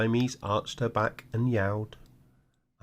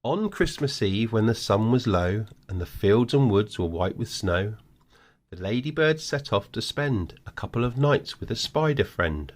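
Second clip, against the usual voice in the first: put-on reading to children. Grandad reads bedtime story.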